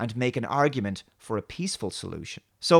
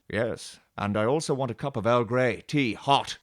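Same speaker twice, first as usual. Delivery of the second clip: Picard; 3 semitones lower than usual. Acted. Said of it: "about everything Picard says and does".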